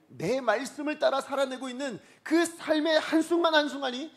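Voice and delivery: high, loud, weighty proclamation; impassioned preaching as God. Acted. God telling believers what truly matters, impassioned preaching. Preacher speaks God's words.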